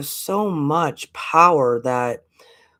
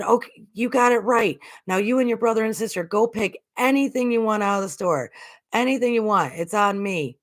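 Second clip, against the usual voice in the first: higher, a lightly voiced cheerful father; generous dad; 8 semitones higher than usual. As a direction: play the dad treating his kids, a little higher. Father filming kids in store.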